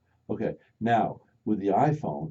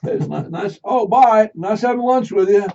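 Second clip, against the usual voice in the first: distracted lunch friend; 14 semitones higher, 14 dB louder than usual. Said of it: "I'm guilty".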